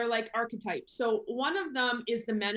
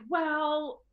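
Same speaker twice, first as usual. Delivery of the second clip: lightly acted hedging, higher pitched; reluctant money saver; 3 semitones higher, 3 dB louder than usual. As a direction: gently talk yourself out of buying. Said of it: "they're very like".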